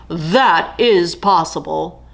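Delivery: lightly voiced lion, bemused; a big cat toying with an idea; hint of a lion voice; amused lion.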